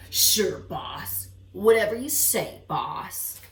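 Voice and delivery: lightly voiced dutiful henchman; obey the boss, a touch gruff; bulldog henchman. Bulldog answering his boss, lightly gruff. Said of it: "The bulldog said".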